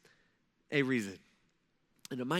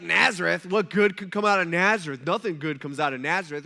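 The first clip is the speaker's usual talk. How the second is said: mock scorn; 7 dB louder than usual. Nathanael's scornful remark quoted.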